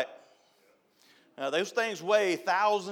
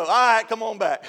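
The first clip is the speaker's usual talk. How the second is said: laughing call; 6 semitones higher, 10 dB louder than usual. Retold or imitated. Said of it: "And then I go".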